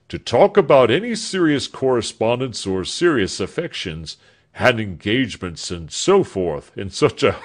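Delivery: a lightly voiced laughing old doctor; a hint of a blustery, teasing old doctor; jovial old doctor. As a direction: brush off serious talk with a chuckle.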